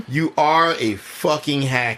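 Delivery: slow, with "are" hit hard; stress on are. Real, not acted. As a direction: spell out "You are a fucking hack" with a heavy "are". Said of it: "I'm gonna say".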